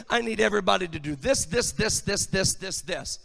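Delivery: mom briskly listing chores; rapid-fire orders. Acted. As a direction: rattle it off as a string of commands. Mom voiced giving rapid orders.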